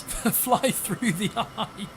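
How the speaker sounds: slow, laughing through the words; laughing read-out. Real, not acted. Streamer reading a viewer's joke aloud, laughing. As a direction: read it out while giggling at the joke.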